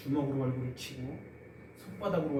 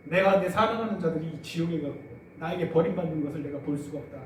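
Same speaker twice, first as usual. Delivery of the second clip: grieved declaration; 3 semitones higher, 7 dB louder than usual. Retold or imitated. God forsaking the son.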